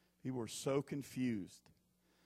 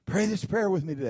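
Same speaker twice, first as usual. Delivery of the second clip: mock radio preacher; 4 semitones higher, 6 dB louder than usual. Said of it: "I hear these people".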